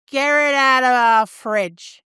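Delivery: slow, lightly voiced Northern British complaint; imitating the fat slags from the advert, drawn out; mock Northern accent. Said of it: "And they say".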